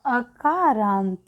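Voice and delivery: अकारांत drawn out slowly; teacher slowly giving the answer. Shown as a demonstration. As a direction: let अकारांत hang as the answer. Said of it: "ये कौन से शब्द हो गए हैं".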